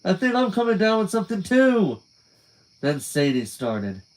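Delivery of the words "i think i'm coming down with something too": mock sick. Joining the fake sickness joke.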